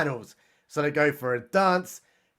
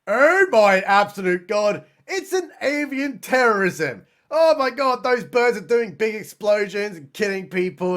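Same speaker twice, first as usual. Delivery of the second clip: hammed-up panic; 2 semitones higher than usual. Hammed-up panic over the bird attack.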